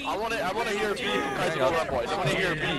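loud officer's call to the men; rally the troops loudly. Real, not acted.

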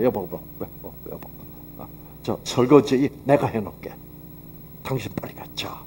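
hushed, gentle coaxing of a tired wife; softly urging his wife to go sleep; soft coaxing whisper. Retold or imitated. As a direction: murmur it so she'll go to bed. Husband coaxing tired wife to bed.

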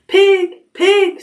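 high, kindly coaxing call. A narrator's reading. Farmer luring a pig with a pail, kind high call. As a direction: coax gently with a high-pitched call. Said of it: "in a kind voice".

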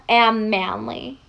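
slow, deliberate manly boast; Kirishima. Pretend. Aoyama imitates a manly classmate, slow boast. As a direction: spell out the boast slowly. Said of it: "Aoyama impersonating Kirishima".

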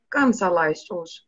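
ordinary delivery

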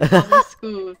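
lightly voiced dad question; a hint of a dad asking about school; copying the dad voice. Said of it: "You sound like a fucking dad".

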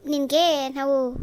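angry scolding. Acted. Father scolds daughter.

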